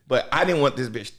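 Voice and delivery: ordinary talk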